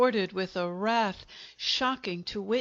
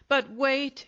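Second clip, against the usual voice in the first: higher, louder furious scream; 5 semitones higher, 4 dB louder than usual. Acted. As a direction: scream it in a rage. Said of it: "he screamed".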